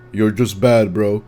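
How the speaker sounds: snotty gamer brushoff; mock a smug commenter; dismissive commenter. Mocking typical commenter.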